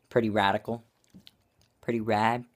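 chewing while talking; muffled food-filled speech; mouth full. Real, not acted. Seen 1: bulging cheeks, jaw working just after biting the nugget.

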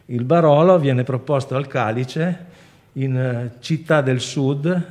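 usual speaking voice

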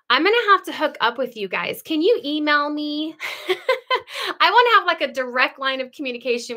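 eager, high and loud, asking to be emailed; excited. Real, not acted. Chatting to a viewer in Alaska, excited high plea. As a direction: gush at her, please email me.

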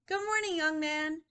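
high, lilting storybook voice; friendly greeting. Acted. Teacher voices passer-by greeting young man, high and friendly. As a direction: greet a child cheerily.

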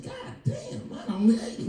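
high, squeaky mock disbelief; shocked outburst. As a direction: jump way up in comic shock.

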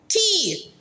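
ordinary talk, nothing marked

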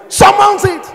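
sudden high shout; preacher's rallying shout; shouted command. Real, not acted. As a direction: blast it out to the crowd. Preacher exhorting congregation.

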